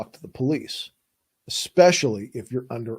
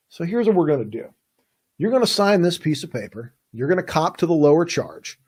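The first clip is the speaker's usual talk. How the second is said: friendly cop. Retold or imitated. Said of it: "Here's how it goes".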